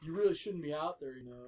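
put-on lightly done Brooklyn surfer accent. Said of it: "he's saying it in a Brooklyn accent".

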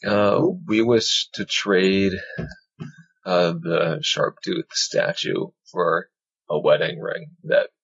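slow, measured formal speech; slow and careful, like an envoy; formal diplomatic. Acted. Formal request to kobold.

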